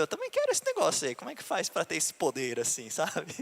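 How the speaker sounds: put-on squeaky eager kid wanting the gift. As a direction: pitch way up like a little boy begging. Pregador imita a si mesmo criança. (voz aguda de criança ansiosa)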